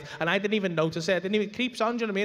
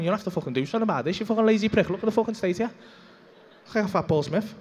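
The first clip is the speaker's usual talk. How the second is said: self scolding rant; faster than usual. Retold or imitated. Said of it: "looking at myself in the mirror going".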